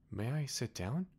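timid little prince. Acted. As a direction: ask shyly like a small boy. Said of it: "a timid inquiry from the little prince".

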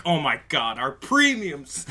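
mock panic. Acts panicking insurance companies.

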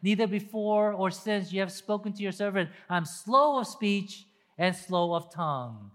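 imploring Moses; Moses pleading. Retold or imitated. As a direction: beg the Lord for release. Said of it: "Moses said to God again".

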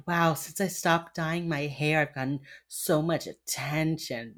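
slow, put-on flirtation; mock flirty. Imitating an agent playing mommy to a suspect, mock-flirty. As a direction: play at being coy, drawing it out.

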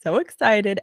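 slow, bubbly giddiness; can hardly contain the excitement; giddy anticipation. Real, not acted. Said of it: "I am so giddy right now".

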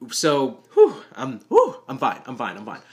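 loud nervous whew, then steadying; nervous exhale. Real, not acted. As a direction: blow out the nerves loudly. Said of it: "I don't get nervous".

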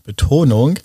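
Betonung stressed on its first syllable; demonstrated quirky stress, BE-tonung. Shown as a demonstration. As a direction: put the weight on Be in Betonung. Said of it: "auf der ersten Silbe".

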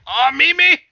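high, loud delighted outburst; hyped fan reaction, acted out; retold excited cry. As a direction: call out her name, thrilled. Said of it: "and I was like".

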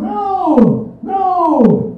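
loud, firm No twice; emphatic no. Real, not acted. Comic to the crowd, loudly refusing. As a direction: shut the idea down hard. Rejecting putting people down.

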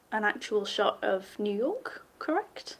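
hushed aside to herself; whispered question. Real, not acted.

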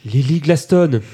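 stuffy nose, name comes out muffled; blocked nose. Real, not acted. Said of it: "Attendez, j'ai le nez bouché".

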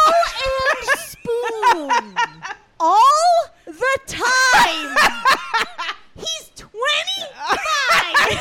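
laughing hard while reading; can barely get the words out for laughing. Real, not acted. Reading shocking letter, cracking up.

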